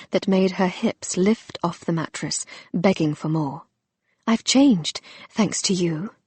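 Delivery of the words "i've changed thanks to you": a light mock pant, trailing into a whisper; breathless, barely holding a voice; understated panting confession. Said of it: "she panted".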